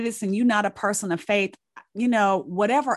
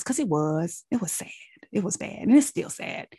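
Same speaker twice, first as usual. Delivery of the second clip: whispered, grief-heavy and soft; sad whisper; 3 dB quieter than usual. Real, not acted. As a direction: let the sadness drop to a whisper. Grieving sister's death, told softly.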